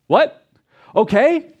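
high, loud disbelieving yelp; can't believe she said yes; surprised. Retold or imitated.

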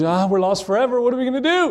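hammed-up wail, rising to the end; dramatic panic. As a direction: imitate a melodramatic kid panicking. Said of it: "one of those dramatic people".

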